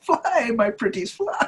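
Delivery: hammed-up witch voice; mock villain. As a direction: croon it like a wicked witch. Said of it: "he has all those dead birds".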